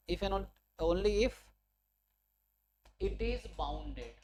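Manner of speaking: very slow, measured dictation. Real, not acted. Teacher finishing the written theorem statement, slow dictation. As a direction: stretch the words at writing pace. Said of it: "word to word लिख के बता रहा हूँ".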